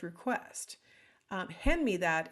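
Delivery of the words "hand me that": plain, direct command; direct statement. Shown as a demonstration. Teacher showing students a direct request, matter-of-fact. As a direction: state it as a straight order. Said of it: "is a statement that's direct".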